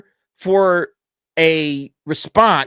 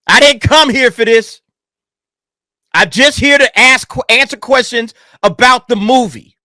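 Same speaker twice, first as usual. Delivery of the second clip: exasperated protest; 5 semitones higher, 5 dB louder than usual. Retold or imitated.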